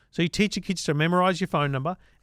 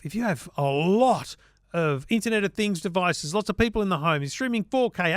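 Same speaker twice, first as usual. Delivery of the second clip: upbeat podcast ad read for the sponsor; host-read advert. Acted.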